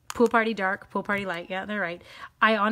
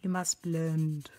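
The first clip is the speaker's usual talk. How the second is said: stern parent; 4 semitones lower, much slower than usual. Pretend. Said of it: "like you're telling your children".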